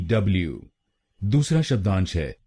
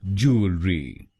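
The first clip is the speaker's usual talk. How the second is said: "ज्वेलरी" drawn out slowly, each part clear; slower. Shown as a demonstration. Teacher slowing "ज्वेलरी" down for learners, deliberate. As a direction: stretch "ज्वेलरी" out gently. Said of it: "तो बनेगा".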